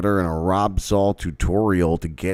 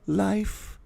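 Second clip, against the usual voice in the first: mouth puppet dog voice; 13 semitones higher, 7 dB louder than usual. Pretend. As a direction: squeak it out like a sock puppet pleading with its owner. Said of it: "little mouth puppets going".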